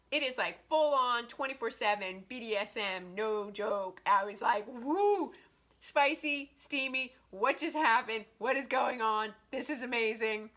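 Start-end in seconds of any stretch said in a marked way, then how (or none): 4.7-10.5 excited gushing. Retold or imitated. Her reaction to the book.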